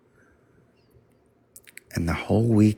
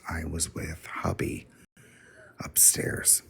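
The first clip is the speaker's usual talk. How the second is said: hushed; 9 dB quieter than usual. Retold or imitated. Confession told in hushed tones.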